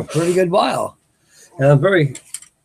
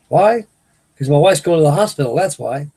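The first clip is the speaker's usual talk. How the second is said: indignant retort; 4 dB louder than usual. Retold or imitated. Retold argument with coworker Todd.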